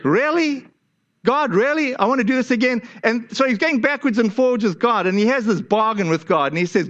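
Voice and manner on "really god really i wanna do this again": higher, incredulous complaint; fed-up Moses pleading with God, higher; exasperated Moses. Retold or imitated. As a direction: throw up your hands at God. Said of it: "and he's like".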